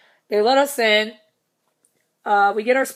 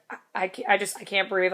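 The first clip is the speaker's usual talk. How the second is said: mock serious; 5 dB quieter than usual. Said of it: "serious as she could".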